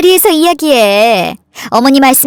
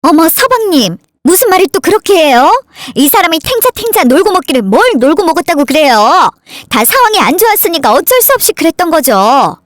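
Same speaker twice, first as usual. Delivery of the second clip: higher, quick indignant woman's voice; defensive sister-in-law; 5 semitones higher than usual. Acted. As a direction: jump in high and fast to defend him. Sister-in-law defends her husband. (높고 빠르게 따지는 형수 목소리)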